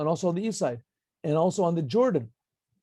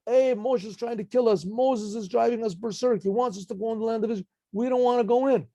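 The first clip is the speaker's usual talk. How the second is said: higher, excited complaining crowd; hammed-up crowd outcry; mock crowd yell; 6 semitones higher than usual. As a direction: cry out like an angry mob. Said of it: "everyone was screaming out".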